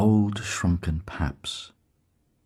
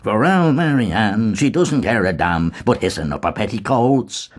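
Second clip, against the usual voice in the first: hoarse rasping growl; 4 semitones higher than usual. A narrator's reading. Mulligan turning gruff, growling over the loaf. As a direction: growl it, suddenly overclouded. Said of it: "growled in a hoarsened, rasping voice".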